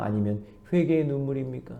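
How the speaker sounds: normal talking voice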